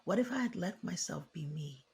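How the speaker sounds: soft, wistful regret; regretful inner voice. Retold or imitated. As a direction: let it sink quietly. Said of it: "And they think".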